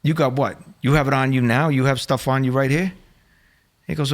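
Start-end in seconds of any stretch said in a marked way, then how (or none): 0.0-2.9 incredulous gangster grilling, pitched up; higher, pressing disbelief; gangster act. Retold or imitated. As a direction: challenge him like an affronted gangster. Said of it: "I went completely gangster on him".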